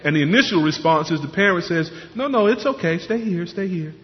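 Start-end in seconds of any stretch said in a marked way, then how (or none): 2.2-3.9 higher start, dropping softer on each repeat; mock parental pleading. Parent soothing a crying child at the door, lightly acted pleading. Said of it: "they plead like that".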